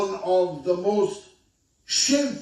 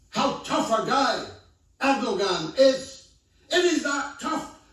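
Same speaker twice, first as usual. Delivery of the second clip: indignant; 6 semitones higher than usual. Real, not acted. Indignant rhetorical attack on Erdogan.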